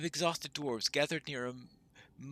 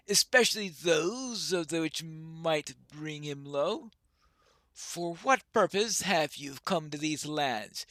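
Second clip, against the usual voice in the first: lightly voiced, formal dwarf leader; guarded, measured dwarf sizing up a stranger; a hint of an old-world dwarf, cautious; wary dwarf; 5 dB louder, slower than usual.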